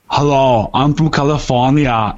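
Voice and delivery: lightly attempted Austrian accent; Arnold Schwarzenegger. Co-host testing a California shout-out, tentative Austrian accent. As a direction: try out a hint of an Austrian accent. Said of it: "I just get an Arnold feel from it".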